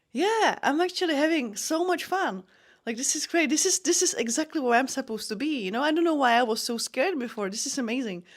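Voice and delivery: high, beaming burst of joy in the cage; excited fighter telling her corner she loves it; thrilled. Retold or imitated. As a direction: gush like you can't believe how fun this is. Thrilled reply to corner mid-fight.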